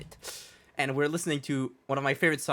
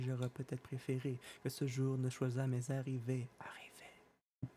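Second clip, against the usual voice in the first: whispering; 12 dB quieter than usual. Acted. Whispered line of the recitation.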